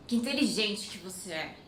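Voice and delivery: Que inteligente que você é said dry and mocking, meaning you're dumb; sarcastic intonation. Shown as a demonstration. Teacher showing how the compliment turns into an insult, sarcastic. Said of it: "with a different intonation".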